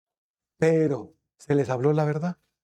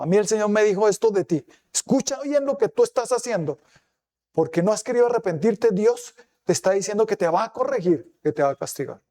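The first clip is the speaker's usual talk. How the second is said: 1 stern prophetic rebuke; 4 semitones higher than usual. Retold or imitated. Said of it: "con palabra de Dios".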